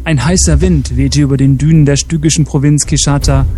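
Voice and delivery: measured storyteller's reading; story narration. Acted. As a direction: narrate an adventure tale with deliberate phrasing. Reads a story aloud.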